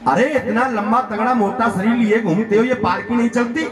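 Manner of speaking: indignant, lightly acted telling-off; scolding king. King rebukes the stout palanquin bearer, mildly scolding. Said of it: "डांट करके कहा रघुगण ने".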